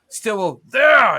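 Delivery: loud urgent shout; calling out. Acted. Game master as Stillwell pointing at a door, shouted. Narrated character calls out, pointing.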